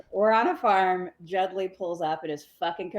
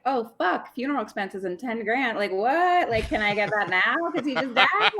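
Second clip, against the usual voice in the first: mock excited, pitched high, rising to louder; eager surprise; 5 semitones higher, 3 dB louder than usual. Widow hearing of ten grand in cash, eagerly surprised. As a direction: act out a sudden grab at a windfall. Widow voiced wanting the money.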